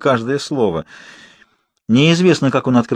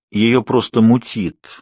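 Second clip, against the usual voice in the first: slow, calm reassurance; reassuring; much slower than usual. Acted. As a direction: soothe a frightened nurse. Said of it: "успокаивал испуганную санитарку Эдвард".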